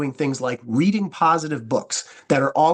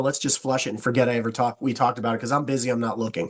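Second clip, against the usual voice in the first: quick, lower, offhand mock brush-off; imitating a hurried, dismissive prospect; 5 semitones lower, faster than usual. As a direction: rattle it off like a busy prospect waving you away.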